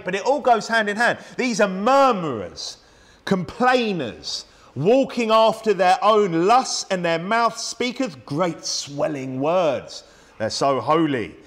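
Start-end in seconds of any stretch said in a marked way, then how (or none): 1.4-10.0 solemn preacher reading the Bible aloud; scripture reading. Acted. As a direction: read the verse with weight.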